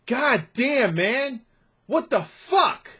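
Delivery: real anger, pitched high; exasperated cursing. Real, not acted. Blogger fuming at the theft of his article, exasperated. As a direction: curse in high, drawn-out disbelief.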